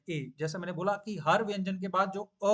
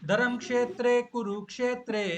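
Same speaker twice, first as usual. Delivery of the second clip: chanted, higher and louder for the class; recitation line; 5 semitones higher, 5 dB louder than usual. Shown as a demonstration. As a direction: recite each word clearly to be echoed. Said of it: "मैं एक बोल करके चुप हो जाऊंगा".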